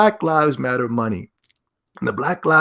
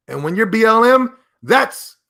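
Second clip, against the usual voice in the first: mock excited climax; 9 semitones higher, 5 dB louder than usual.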